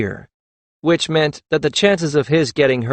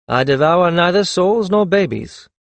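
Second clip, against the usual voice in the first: firm; 5 semitones higher than usual. A narrator's reading. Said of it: "he said firmly".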